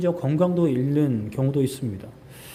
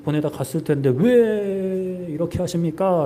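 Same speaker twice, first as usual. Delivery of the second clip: mild complaining. Acted. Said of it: "라고 따지는 거예요".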